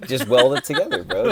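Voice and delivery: laughing while joking. Real, not acted. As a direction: chuckle through it.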